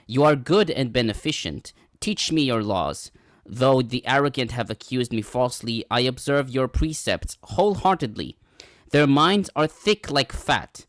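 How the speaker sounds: measured, emphatic psalm recitation; scripture reading. Acted. Reading a psalm to the study group, declamatory. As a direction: read the verses out firmly, phrase by phrase.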